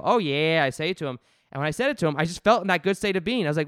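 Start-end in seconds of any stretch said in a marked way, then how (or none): 0.0-0.6 catchphrase greeting. Retold or imitated. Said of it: "I go".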